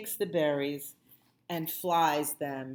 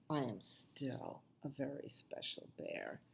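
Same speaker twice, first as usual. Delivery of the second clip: soft whisper; 2 semitones lower, 11 dB quieter than usual. A narrator's reading. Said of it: "he whispers".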